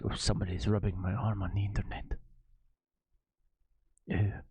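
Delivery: low, softly breathed hint of a Russian accent; mock Russian accent, indulgent and low. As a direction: put on a light, quiet Russian accent. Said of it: "That's my Russian accent".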